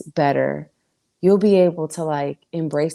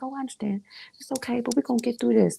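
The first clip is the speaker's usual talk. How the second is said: soft, higher-pitched reassurance; gentle acted understanding; self-compassion; 6 semitones higher, 4 dB quieter, faster than usual. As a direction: comfort yourself like a good friend. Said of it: "give yourself some compassion".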